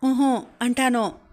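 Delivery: slow, tearful shake-of-the-head hum; tearful refusal. A narrator's reading. Narmada, in tears, refusing to stop calling him bava, slow and tearful. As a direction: hold back tears and refuse him slowly.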